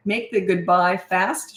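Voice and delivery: ordinary talk, nothing marked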